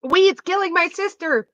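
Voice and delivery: hammed-up ditzy Valley girl mocking Lily; squeaky mock Valley girl. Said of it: "the voice you do for Lily".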